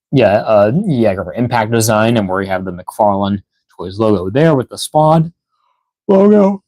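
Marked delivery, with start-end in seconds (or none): 2.2-6.6 talking through a yawn; words stretched by a yawn. Real, not acted. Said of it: "I'm gonna be yawning a lot".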